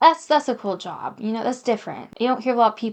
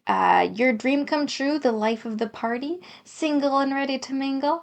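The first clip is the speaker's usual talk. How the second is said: cheesy pickup line; 3 semitones higher than usual. Acted. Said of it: "I don't wanna say your dream come true".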